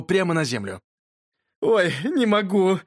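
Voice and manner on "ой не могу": slow, higher, acted helplessness; gasping with mirth. A narrator's reading. Boy overcome by his friend's fly story, gasping with mirth. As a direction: act out being breathless from laughter. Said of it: "задыхался я".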